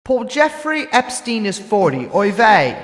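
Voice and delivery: put-on sung-spoken ditty in a light British accent; lightly put-on British accent, reading the limerick song. Reading the Epstein song to his co-host in a light British accent. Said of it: "I'm gonna do it in a British accent".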